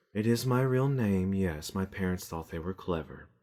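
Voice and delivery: very airy, breath-heavy, soft voice. Voicing a female halfling character introducing her name: very breathy voice. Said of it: "Very breathy voiced".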